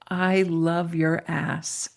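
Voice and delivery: slow, measured retelling of her declaration; retold earnest confession. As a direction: say it slowly and deliberately, quoting her. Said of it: "she grabbed my hand and she said".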